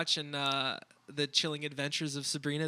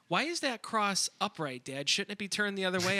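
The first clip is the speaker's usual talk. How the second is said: put-on higher, childlike asking; child's question; 6 semitones higher than usual. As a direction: mimic his curious kid. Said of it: "your kids are in the back of the car going".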